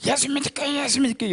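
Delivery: high, frantic chant-like cry; frenzied outcry. Retold or imitated. Preacher re-enacting a possessed newcomer's outburst, frenzied outcry. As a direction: imitate a possessed person crying out on a high pitch. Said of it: "또 두 주 후에 또 그러더라고".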